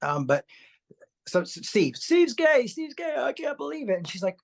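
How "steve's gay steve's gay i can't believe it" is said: put-on higher, distraught kid's voice, quoted; upset kid, retold. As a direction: replay the boy's shocked blurt. Retelling his upset as kid.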